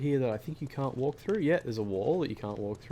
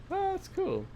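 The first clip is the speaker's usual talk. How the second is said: squeaky high delighted ah; thrilled by what you see; excited. Real, not acted. Staircase moves.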